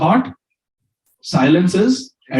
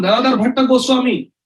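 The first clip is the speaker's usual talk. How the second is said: "Gadadhar Bhatta Goswami" raised high, denouncing; accusing name call; 7 semitones higher than usual. Retold or imitated. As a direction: point him out by name, pitched up. Maid names the accused publicly.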